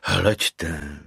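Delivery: calm him down before explaining; patient. A narrator's reading. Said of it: "řekl trpělivě Koukr". (trpělivě, tišeji a níž)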